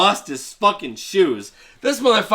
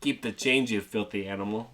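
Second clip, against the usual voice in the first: quiet menace; 6 semitones lower, 10 dB quieter than usual. Retold or imitated. Gangster movie punchline.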